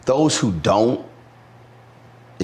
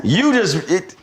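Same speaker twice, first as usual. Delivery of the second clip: teasing high voice; 12 semitones higher than usual. Acted.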